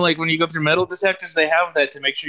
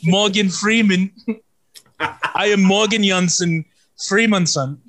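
mock German celebrity impression, slightly raised; German Morgan Freeman; 3 semitones higher than usual. Introducing himself to friends, comic German-accented impression. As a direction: play a film star with a German accent. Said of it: "I am German, Morgan Freeman".

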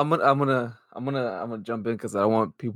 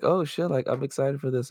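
excited fan; 4 semitones higher than usual. Retold or imitated. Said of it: "people were like".

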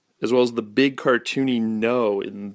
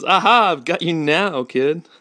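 loud, gloating cartoon monster; higher, louder villain catching his prey; bubble monster; 7 semitones higher, 5 dB louder than usual. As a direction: pounce with a big triumphant aha. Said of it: "Bubble Monster comes alive and says".

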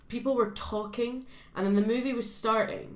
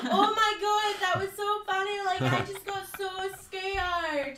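high, mocking giddy voice; imitating giddy cinemagoers after a jump scare; mocking the audience; 11 semitones higher, slower than usual. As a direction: send up silly cinemagoers, pitched up. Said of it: "everyone would be like".

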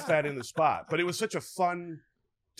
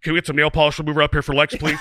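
calling out; 11 dB louder than usual. Retold or imitated. AD calling across the roof.

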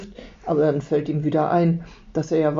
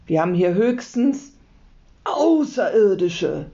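shout; 3 semitones higher, 3 dB louder than usual. A narrator's reading. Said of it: "schreit Martin".

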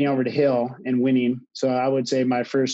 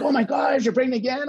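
higher, mock-startled gasp of news; shocked realization; 10 semitones higher than usual. Husband realizing wife is pregnant, mildly shocked. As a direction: replay the moment it sinks in.

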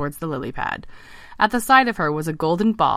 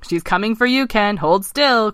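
higher, mildly alarmed frog; lively frog warning; croaking alarm; 5 semitones higher, 5 dB louder than usual. Acted. Eric warning Ken the princess is coming, croaking. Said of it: "croaked Eric".

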